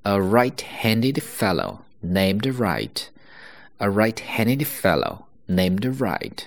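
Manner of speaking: slow, careful read with clear r sounds; tongue twister model. Shown as a demonstration. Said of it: "所以这是第一个绕口令". (慢读绕口令)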